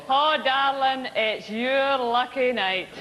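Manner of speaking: hammed-up Scotsman pickup line; cutout's chat-up line. Cardboard Scotsman chatting up the host, slow and laughing. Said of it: "what he would say would be".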